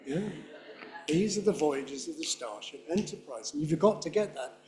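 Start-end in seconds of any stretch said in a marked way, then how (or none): 1.1-3.5 quicker, softer reading. Shown as a demonstration. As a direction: try his speed quietly. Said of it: "can you do it at his speed".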